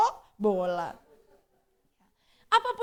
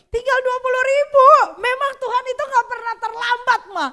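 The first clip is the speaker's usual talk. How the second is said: higher, louder thrilled report; excited retelling; 11 semitones higher, 11 dB louder than usual. Retold or imitated. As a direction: share the good news with delight. Anak bersemangat soal berkat. (anak yang bersemangat menceritakan kiriman uang papanya, nada tinggi dan keras)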